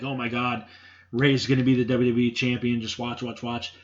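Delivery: reliving the thrill of almost seeing a title win; excited freaking out. Retold or imitated. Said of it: "I was freaking out".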